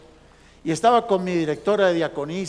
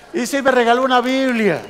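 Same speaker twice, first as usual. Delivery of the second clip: emphatic; 6 semitones higher, 6 dB louder than usual. Real, not acted. Punchline build in sermon.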